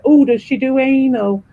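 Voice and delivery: lightly mocking, drawn-out whining oohs; mock pub bore. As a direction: imitate someone harping on, stretching each "oh". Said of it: "there's always one who just always brings it back to".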